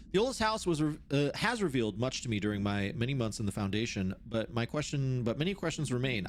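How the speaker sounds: measured, formal reading voice; document read-aloud. Acted. Researcher reads out notes on the oldest house, formal read-aloud.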